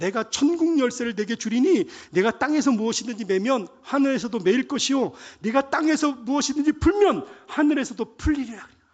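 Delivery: high-pitched, loud, excited delivery.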